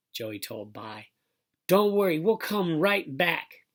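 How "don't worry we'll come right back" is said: put-on high, louder little-girl voice; high-pitched, drawn-out reassurance; reassuring child. A narrator's reading. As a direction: promise it like a small sister. Little sister reassures brother, acted.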